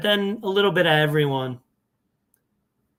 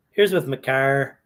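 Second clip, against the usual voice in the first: Chicago accent; 2 semitones lower than usual. Real, not acted. Host reading out lineup players, slipping into a Chicago accent. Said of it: "Said that with a real accent, a real Chicago accent".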